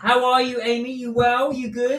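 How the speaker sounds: high-pitched, eager check-in; excited greeting. Real, not acted. Host asking Amy how she is, excited greeting.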